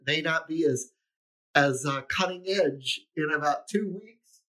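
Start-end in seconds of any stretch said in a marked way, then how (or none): 1.5-4.4 talking through a mouthful; chewing while talking. Real, not acted. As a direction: speak while chewing food. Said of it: "I'm sorry, I'm chewing".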